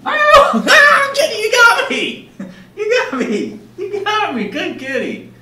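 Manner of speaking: very high squeal, softening to a coo; playful surprise. Pretend. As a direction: pretend to be caught, praise the kitty. Cat catches speaker in game.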